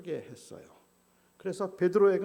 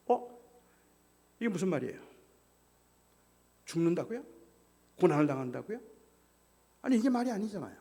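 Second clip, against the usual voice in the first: startled Peter; 2 semitones higher than usual. Acted. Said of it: "베드로가 깜짝 놀랐어요".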